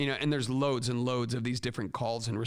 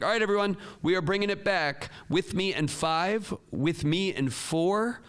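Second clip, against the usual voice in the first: countdown call-out; 4 semitones higher, slower than usual. Shown as a demonstration. Teacher giving class a five-second warning, countdown call-out. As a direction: round up the class with a measured countdown. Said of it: "have a countdown call out".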